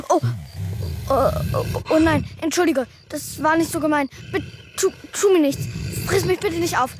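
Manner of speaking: stammering, halting apology; nervous pleading. Acted. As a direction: backpedal timidly before a beast. Begs the beast not to eat them.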